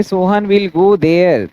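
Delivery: example spelled out slowly for the class; slow dictation. Shown as a demonstration. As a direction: read it out word by word. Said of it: "example sentence read out".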